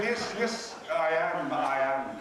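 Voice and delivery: put-on emphatic, lively old-lady impersonation; hammed-up grand elderly woman; Gertrude Stein. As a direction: pose as a spirited ancient bohemian. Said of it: "deepening my voice to give an impression".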